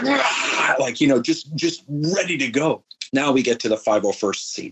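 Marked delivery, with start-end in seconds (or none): 0.0-0.7 rah. Retold or imitated. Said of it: "everyone's like".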